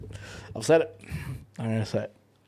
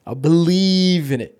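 slow, drawn-out conviction; slow emphatic; 2 semitones higher, much slower than usual. Shown as a demonstration. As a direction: stretch every word, full belief.

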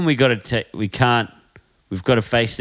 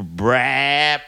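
motorbike brap. Shown as a demonstration. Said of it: "you just go brap".

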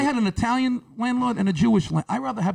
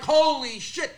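stunned mock exclamation; 7 semitones higher, slower than usual. Reacting to deaf man's reveal.

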